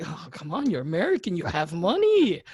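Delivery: lightly acted pleading shopkeeper; a hint of a pushy seller; coaxing vendor. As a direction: wheedle the customer, stretching the last words. Vendor coaxing American customer.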